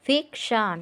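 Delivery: ফিকশন in two parts, ফিক then শন; split into syllables. Shown as a demonstration. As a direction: break ফিকশন after ফিক. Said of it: "দেখছো ভাগ করে দিছি সেভাবে দিছে".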